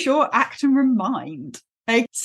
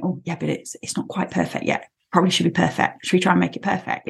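fussy Rabbit; 4 semitones lower, faster than usual. Retold or imitated. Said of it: "Rabbit is the voice in your head going".

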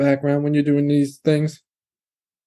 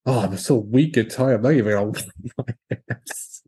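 mock weak and tired voice; 4 semitones lower than usual. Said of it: "You just go".

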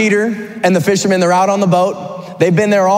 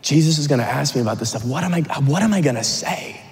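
softer, mildly worried muttering to oneself; anxious thinking; 2 semitones lower, 5 dB quieter than usual. Acted. Peter by the fire dreading questions from Jesus, anxiously thinking. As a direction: think aloud with faltering unease. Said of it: "He's probably shaking, thinking".

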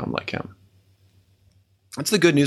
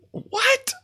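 squeaky high mock disbelief; a sudden, very high, incredulous what; astonished what. Real, not acted. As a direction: gasp it out in astonishment. Reacting to the gift of all things.

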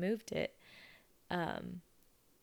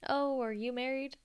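mock nosy question; 7 semitones higher, 4 dB louder than usual. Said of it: "jump in and say".

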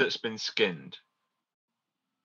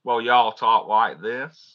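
mock Southern American accent; 4 dB louder, much slower than usual. Shown as a demonstration. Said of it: "Can you talk in an American accent?".

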